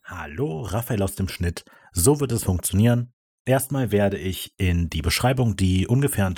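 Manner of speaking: voice-over insert. Real, not acted. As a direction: read it as a separate studio insert.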